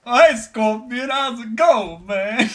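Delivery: high, loud, slow lizard greeting; Reptile voice. Retold or imitated. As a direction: greet a friend like a lizard man.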